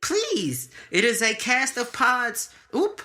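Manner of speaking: high, formal alien princess voice; Starfire voice. Pretend. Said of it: "You sound like Starfire".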